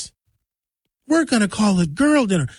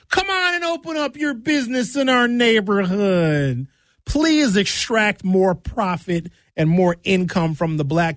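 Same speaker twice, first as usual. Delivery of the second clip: sarcastic mock invitation; slower than usual. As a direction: play the overly generous host, mockingly. Mocking black community's welcome.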